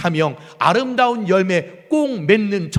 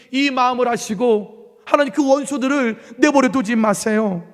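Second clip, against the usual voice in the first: mild angry plea; 7 semitones higher, 3 dB louder than usual. Acted. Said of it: "기도는 분노와 증오가 가득했습니다".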